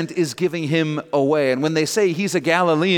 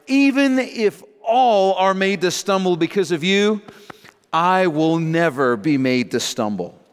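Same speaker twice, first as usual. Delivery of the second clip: raised, insistent declaration; emphatic vow; 3 semitones higher than usual. Retold or imitated. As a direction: boldly proclaim it, stressing key words. Peter's boastful reply acted out.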